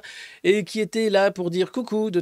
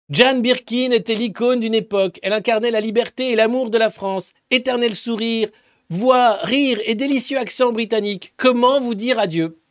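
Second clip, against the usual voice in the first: louder, a touch hammed-up official tone; mock solemn tribute; 4 semitones higher, 4 dB louder than usual. Reading the speaker of the Assembly's tweet with mock solemnity. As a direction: read the tweet like a pompous homage.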